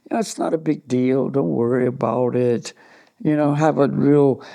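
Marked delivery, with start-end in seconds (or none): 0.0-2.7 softer, falsely soothing self-talk; mocking positive thinkers' advice, soft false calm; mock affirmation. Saying calming phrases in a quiet, artificial way. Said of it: "just say".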